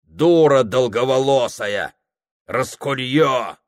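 loud, slow contemptuous name-calling; clerk's insult. Acted. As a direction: sneer the insult at her.

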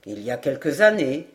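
low-pitched, deliberate sergeant's voice; measured sergeant. A narrator's reading. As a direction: answer low and steady, as the sergeant.

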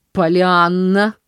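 loud, slow stern call of the name; stern exclamation. Acted. Aunt cutting off her niece, stern exclamation. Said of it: "воскликнула она сурово".

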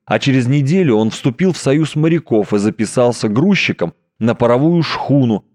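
ordinary delivery, nothing marked

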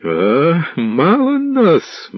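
high, very slow, drawn-out boom; thundering mock. Tall lad mocking the steward, slow thundering roar. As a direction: roar it with a sword in hand. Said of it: "гримів".

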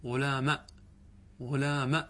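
غلام ending on a short fatha, no alif; example form. Shown as a demonstration. Teacher modelling غلام ending in fatha for students. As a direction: clip غلام to a short final a. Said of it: "يعني إيش نقول؟".

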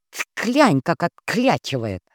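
disapproving sister. Acted. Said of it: "осудила поведение старшей сестры Нует".

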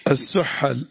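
teacher models السحل as "as-suhal"; corrected vowelling. Shown as a demonstration. Teacher correcting the reader, السحل voiced as "as-suhal". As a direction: say السحل with an "a" after the h. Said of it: "السحل".

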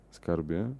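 plain reading voice

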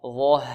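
ظه with a full breathy ه; corrected pronunciation. Shown as a demonstration. Teacher correcting the students' mistake, full breathy ظه. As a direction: let the ه flow at the end of ظه. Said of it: "لا نقول ظه".

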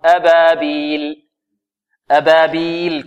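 "أبابيل" with every letter thin and unheavy; all letters light. Shown as a demonstration. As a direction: recite "أبابيل" lightly throughout. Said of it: "كلها مرققة". («أبابيل» بترقيق كل الحروف)

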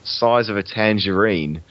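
slow Australian trick phrase; Australian accent. Shown as a demonstration. Repeating the friend's accent phrase, slow Australian accent. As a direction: echo it slowly in an Australian accent. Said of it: "the one you said about being Australian".

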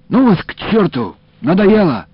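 high, loud fed-up retort; angry snap. A narrator's reading. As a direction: snap back in irritation. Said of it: "огрызнулся я".

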